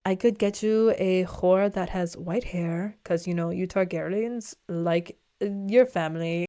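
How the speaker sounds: slow, sly courtesan voice, set apart from her own; sultry courtesan. Retold or imitated. Recapping the show, the courtesan offers Daemon a white-haired whore, in a slow, sly voice. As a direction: drawl the offer like a knowing madam. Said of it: "she's basically like".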